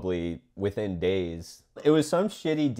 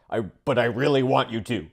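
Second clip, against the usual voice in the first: fast, high whiny pleading; mock a cop begging you to sign; hammed-up whiny plea; 3 semitones higher, 3 dB louder, much faster than usual. Mocking pleading cops.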